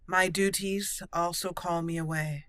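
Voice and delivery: measured, stately Grey Warden commander; formal hero roleplay voice. Acted. Warden commander formally accepting friendship, then urging aid, in a stately roleplay voice. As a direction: speak like a dignified knight asking for help.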